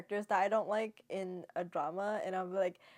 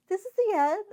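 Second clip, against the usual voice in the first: much higher and louder, incredulous rise on end; shocked question; 12 semitones higher, 8 dB louder than usual. Retold or imitated. Viewer shocked that the drama already ended, high and loud. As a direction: gasp it out in disbelief.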